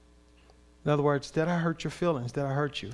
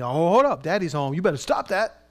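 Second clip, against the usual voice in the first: a hint of a stern daddy; lightly voiced father warning; 3 dB louder than usual. God as stern daddy telling Saul to stop. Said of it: "a deep voice, a daddy approach".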